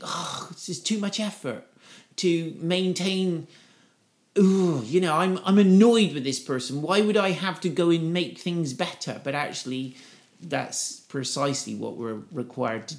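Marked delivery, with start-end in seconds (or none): 0.0-9.2 put-upon, higher-pitched grumble; mock annoyance. Reluctant believer balking at mending a relationship, annoyed. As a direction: grumble like it's all too much effort. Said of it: "we kind of think".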